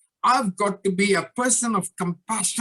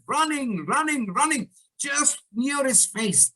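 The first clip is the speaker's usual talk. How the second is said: higher, urgent storytelling; building suspense; 6 semitones higher, slower than usual. A narrator's reading. Speaker tells audience of the lion charging at the man, urgent suspense. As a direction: stretch it out as danger closes in.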